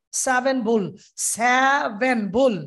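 সেভেন with a flat Bengali sa vowel, ভুল dragged out slowly; mock wrong seven. Teacher mocking the local seven pronunciation. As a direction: imitate the Bangladeshi সেভেন. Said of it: "এটাকে বাংলাদেশিরা সেভেন বলে থাকে".

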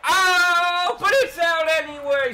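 high, loud burst of delight; excited yell. Real, not acted. Gamer yelling as his pitcher gets the out. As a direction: yelp with joy at the out. Strikeout celebration in baseball game.

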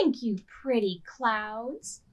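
slow, dreamy reading of the refrain; storybook reading. A narrator's reading. Librarian reading the refrain to children, slow. Reads picture book aloud.

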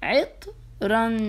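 each sound drawn out long and slow; teacher stretches عطرا slowly for the class; stretched out slowly. Shown as a demonstration. Teacher to pupils, drawing عطرا out slowly. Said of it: "ها، عطرا".

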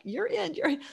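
high-pitched, eager quote; excited retold hiring. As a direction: blurt it out, thrilled to hire. Retelling her eager instant hiring.

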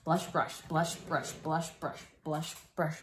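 "blush brush" repeated as a tongue twister; careful run of repeated "blush brush". Shown as a demonstration. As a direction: chant the tongue twister evenly, back to back. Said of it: "say that ten times fast".

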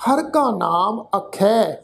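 slow, measured Gurbani reading with drawn-out words; scripture recitation. Shown as a demonstration. Teacher reading Gurbani aloud to the congregation, slow and measured recitation. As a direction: recite phrase by phrase, lengthening the endings. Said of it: "ਇੱਕ ਵਾਰ ਫਿਰ ਤੋਂ ਪਾਠ ਉਚਾਰਨ".

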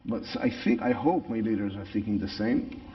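English with a natural Israeli accent. Real, not acted. Same speaker continues.

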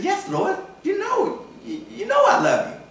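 high, strained plea of the accused; pleading Peter. Retold or imitated. Peter answers Jesus a second time, high pleading voice.

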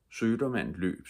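ordinary delivery, nothing marked

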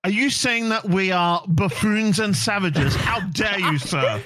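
indignant outrage. Acted. Mock offended Australian.

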